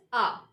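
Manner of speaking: A as a long open "ah" for R; British R. Shown as a demonstration. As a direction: say A with no r sound. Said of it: "pronunciation of this letter is".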